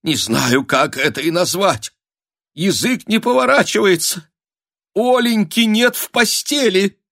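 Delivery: high, anxious mother's voice; rising panic, voice climbing; a mother in night alarm; frantic countess. A narrator's reading.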